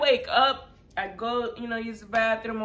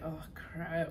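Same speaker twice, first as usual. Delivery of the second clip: much softer, caught-out oh crap; sheepish oh crap; 5 semitones lower, 13 dB quieter than usual. Retold or imitated. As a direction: say it like a kid caught doing wrong. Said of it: "I'm like".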